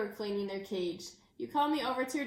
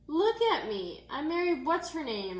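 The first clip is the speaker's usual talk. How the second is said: loud, higher call, faking courage; brave holler; 5 semitones higher, 4 dB louder than usual. Acted. Stranded child calling to the teacher, forced brave holler. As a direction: shout bravely across the creek. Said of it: "I hollered, trying to sound brave".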